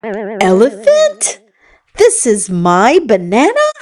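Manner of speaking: a monkey shocked to find her banana is a tusk. Acted. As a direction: ask it in disbelief. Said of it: "the shocked monkey said".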